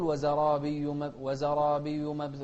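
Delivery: مبثوثة said without doubling the b; the mistaken reading; no shadda. Shown as a demonstration. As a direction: clip مب- short with a single b. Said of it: "بدون تشديد".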